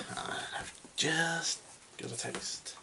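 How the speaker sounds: hushed whisper aside. Real, not acted. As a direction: whisper it under your breath. Interrupted by text, whispering aside.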